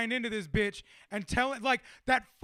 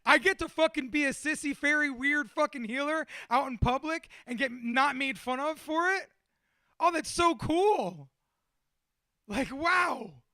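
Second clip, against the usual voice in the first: excited gushing; 4 semitones higher, 4 dB louder than usual. Real, not acted. Gushes about getting to play healer.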